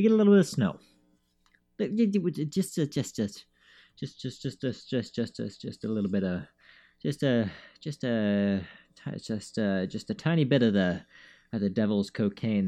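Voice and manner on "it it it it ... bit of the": comic stammer. Pretend. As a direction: trip over the words on purpose. Stalling joke about devil's cocaine.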